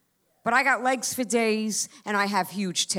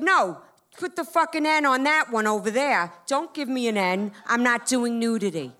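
indignant refusal; 2 semitones higher than usual. Acted. Acted refusal of nudity sticker.

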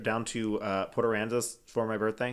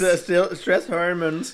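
imitating Australian accent; 7 semitones higher, 6 dB louder, slower than usual. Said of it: "You sounded Australian".

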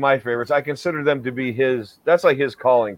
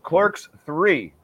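slow, higher movie-title voice; dramatic announcer; 5 semitones higher, much slower than usual. Pretend.

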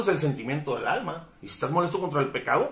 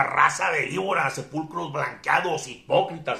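mock shout; 4 dB louder, slower than usual. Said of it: "Y a veces les gritaba".

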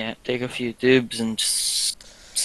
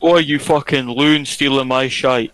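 put-on Scottish accent with a jokey bark; mock Scottish. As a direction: play an angry Glaswegian raider. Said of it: "Imagine Rust in Scottish".

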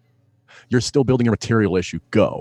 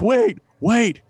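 calling manager; 9 semitones higher than usual. Retold or imitated. Manager calling after him.

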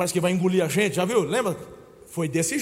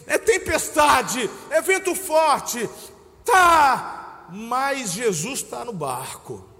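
higher, louder, slow proclamation ending in a shout; bold declaration; 6 semitones higher, 6 dB louder, much slower than usual. Shown as a demonstration. Preacher proclaiming to the congregation, loud and bold. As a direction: declare it with full force. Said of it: "Aí eu falo assim".

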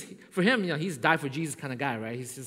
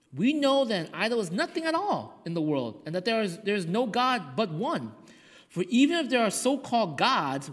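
raised, measured Bible reading; scripture reading. Acted. Pastor reading Corinthians to the church, raised and measured. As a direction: read the verses with weight.

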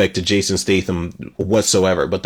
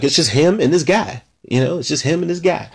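higher-pitched quoted movie line, lightly imitated; John Travolta; 5 semitones higher than usual. Fan likens himself to Pulp Fiction's car scene, lightly imitated. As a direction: toss it off as a light impression. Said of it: "I sound like John Travolta".

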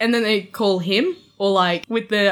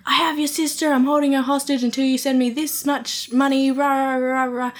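mock scammer voice; 6 semitones higher than usual. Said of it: "a man's voice being like".

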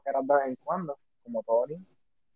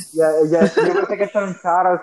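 laughing while talking; 4 semitones higher, 6 dB louder than usual. Real, not acted. Laughs at long shout-out.

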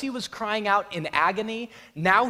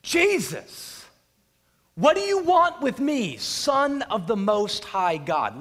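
high, loud anguished cry of Jesus; a piercing call, then a slow, heavy finish; demoniac crying out; 4 semitones higher, 5 dB louder, slower than usual. Acted. Possessed man at Jesus' feet crying out his name, high and loud. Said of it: "he goes".

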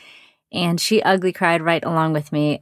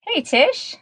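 tin can sound; 12 semitones higher than usual. Real, not acted. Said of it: "so it sounds a bit like I'm in a tin can".

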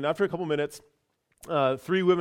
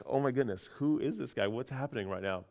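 softer, lower muttered thought; dismayed inner voice; 3 semitones lower, 7 dB quieter than usual. Retold or imitated. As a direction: say it under your breath, bewildered. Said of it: "I'm kinda just like".

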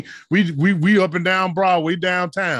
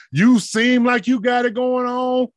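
emphatic preaching; 5 semitones higher than usual. Acted. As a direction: call it out to the congregation with full force. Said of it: "quotation marks".

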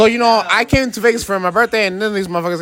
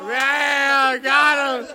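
higher-pitched hype shouts, slowed down; excited cheering; 5 semitones higher, much slower than usual. Real, not acted. Cheering a friend on in the pool, excited shouts.

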